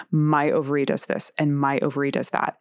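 ordinary talk, nothing marked

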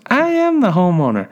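put-on squeaky, high-pitched young woman's retort; mock high squeak, stretched on the first words. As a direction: imitate an indignant squeaky little voice. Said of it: "in this high-pitched voice".

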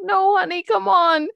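high, playful mock Butch voice; chirpy impression of a tough guy coaxing; imitating Bruce Willis. Friend retells Pulp Fiction, hurrying his girlfriend, mock high voice. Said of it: "He's like".

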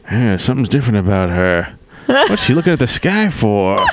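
slowed-down Bob Hope as a caveman. Retold or imitated. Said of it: "my caveman voice, just a slowed down Bob Hope voice".

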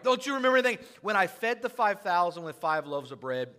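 high, loud exasperated reminder; frustrated Jesus. Acted. Jesus reminding disciples of the feeding, frustrated. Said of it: "He's getting a little frustrated".

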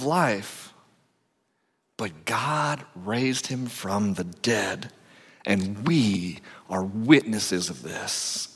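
slow, weighty accusing reading; scripture reading. Acted. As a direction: read it as Peter holding them to task.

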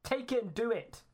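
screaming. Acted. The presence screams at Sarah to do it, high and loud. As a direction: scream the order at her. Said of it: "starts screaming out and says".

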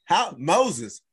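a touch of comic bewilderment, stretching "how"; pleading biblical character. Acted. Moses asks the Lord how he ended up herding sheep, comic plea. Imagined prophet pleading with God.

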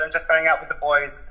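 flustered denial. Retold or imitated. Son backtracking to mum after blurting it out, flustered.

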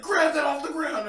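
high loud call from outside; mock yell. Copying strangers yelling outside, mock yell. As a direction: call out like guys on the street. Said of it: "I'm just copying".

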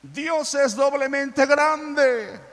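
put-on high, slow, triumphant child's cry; a small boy bursting in with news; excited child. A boy runs to his father, excited and high. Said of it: "salió corriendo y le dijo a su papá".

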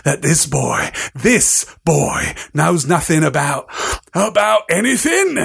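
lightly growled, building to disbelief; growling, rising outrage. Acted. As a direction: growl it, then boil over. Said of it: "he growled at the Dursleys".

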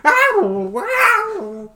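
high laughing ow, wow; hammed-up startled yelp, loud and high; laughing mock yelp. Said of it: "You're like".

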